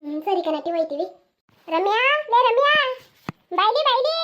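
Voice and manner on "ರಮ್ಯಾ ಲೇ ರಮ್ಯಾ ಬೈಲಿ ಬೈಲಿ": put-on older sister calling Ramya. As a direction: shout her name across the field. Girl calling her sister.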